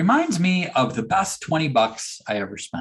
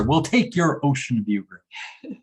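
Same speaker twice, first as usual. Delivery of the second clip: laughing; slower than usual. Retold or imitated.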